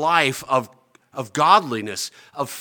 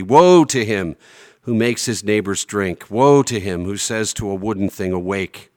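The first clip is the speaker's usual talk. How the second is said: wrathful proclamation; 4 dB louder than usual. Acted. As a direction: declare each woe like judgment falling. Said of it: "we need to hear the wrath of God".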